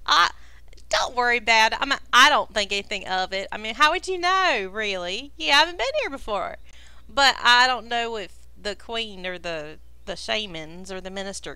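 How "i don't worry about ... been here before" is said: lightly voiced guide waving off an apology; amused reassurance. Game master as the guide forgiving newcomers, easygoing reassurance. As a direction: reassure them, a little loud and easy. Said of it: "Cragdest chuckles and says".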